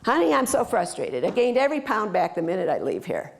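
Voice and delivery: a hint of the exasperated spa client; frustrated client again. Shown as a demonstration. Client complains to the coach, mildly exasperated. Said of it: "how the conversation goes from a coach".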